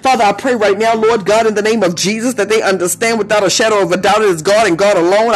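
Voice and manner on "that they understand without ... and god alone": rushed, rapid-fire prayer; talking fast. Real, not acted. Preacher praying for the listeners, talking fast. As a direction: let the prayer race ahead of itself. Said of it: "I feel like I'm talking fast".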